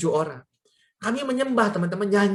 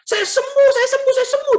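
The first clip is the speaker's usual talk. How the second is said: loud, very high repeated cries; acted ecstatic high-pitched shout; overjoyed shouting; 6 dB louder than usual. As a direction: imitate someone yelling with joy. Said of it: "Dia senang sekali".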